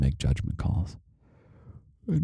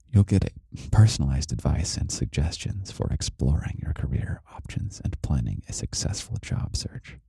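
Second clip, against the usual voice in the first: audiobook voice. Acted. Reads report aloud.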